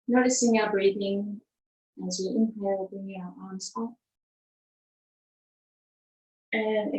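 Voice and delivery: measured yoga-teacher cueing, pausing between phrases; evenly paced breathing instructions; guided breathing. Acted. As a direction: lead the class calmly through each breath. Leads movement with breath.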